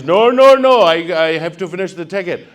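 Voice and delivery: firm little rent-a-cop voice; mock officious officer; insistent officer.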